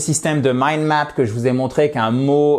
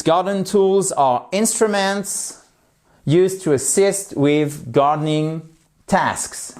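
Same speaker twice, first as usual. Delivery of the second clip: slow model reading; 3 semitones higher, slower than usual. Shown as a demonstration. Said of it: "reads English model sentence".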